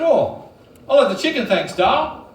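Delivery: high, bright eager answer; eager reply. Retold or imitated. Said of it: "I said".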